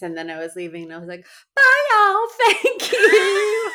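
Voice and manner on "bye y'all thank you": high, loud Southern goodbye, imitating herself; hammed-up Southern send-off, pitched way up; Southern accent. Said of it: "a Southern accent on stage".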